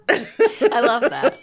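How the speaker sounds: slow, loud, high savouring; drawn-out delight. Pretend. Host relishing the guest's joke, slow and drawn out. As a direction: stretch every word out with relish.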